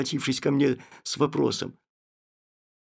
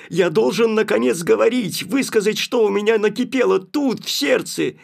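loud, impassioned pleading; overwhelmed outburst; 5 semitones higher, 5 dB louder than usual. Acted. The narrator bursts out to Nastenka, loud and impassioned. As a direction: pour it all out, unable to hold back. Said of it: "не будучи в силах преодолеть своё волнение".

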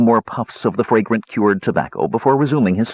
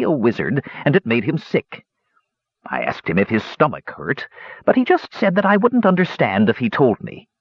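put-on old dwarf voice; 5 semitones higher than usual. Dwarf hermit telling story.

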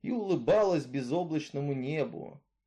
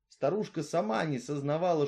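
ordinary delivery

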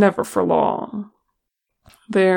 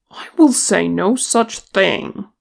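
a touch louder, indignant refusal; 2 semitones higher, 4 dB louder than usual. Acted. Gimli refusing Thorin's demand, mildly indignant. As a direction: bristle at the very idea. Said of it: "he said indignantly".

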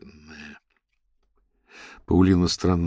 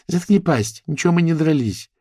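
snapping back; 10 semitones higher, 4 dB louder than usual. Acted. Quarrel between girls.

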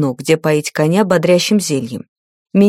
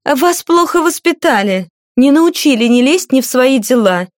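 higher, poisonous sneer; venomous jab; 6 semitones higher than usual. A narrator's reading. The spiteful lady stings Cora, venomous jab. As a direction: needle her with venom. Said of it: "ядовито уколола".

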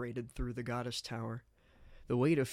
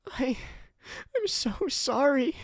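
high, slow tearful voice; a higher, broken weeping plea; weeping apology; 14 semitones higher, 6 dB louder than usual. Acted. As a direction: sob the apology out. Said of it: "as she wept into his jacket".

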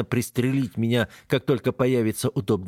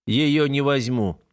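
gloomy warning; 4 semitones higher, slower than usual. Acted. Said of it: "мрачно предупреждаю".

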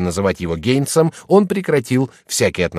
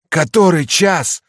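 резко и громко, медленно по словам; выкрикни из угла; shouted question; 9 semitones higher, 5 dB louder, slower than usual. A narrator's reading. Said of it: "крикнула женщина". (громкий окрик)

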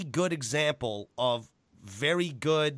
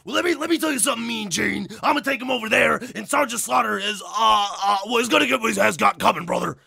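loud, high, fast wrestling promo yell; Hulk Hogan impression; 7 semitones higher, 6 dB louder, faster than usual. Mimicking an eighties wrestler's promo to a friend, loud and high. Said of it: "Or you got".

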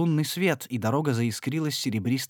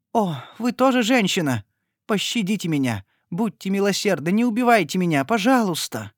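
higher, louder desperate begging; pleading in fear; 8 semitones higher, 4 dB louder than usual. A narrator's reading. Frightened lady begging Agnes for mercy: terrified plea. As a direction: beg for your life.

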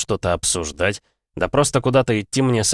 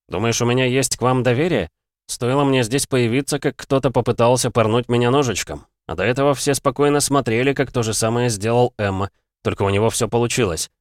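raised, higher-pitched rebuke; indignant retort; 5 semitones higher than usual. Acted. Hero reproaches the gods for standing by, an indignant retort. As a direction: answer back with pointed distrust.

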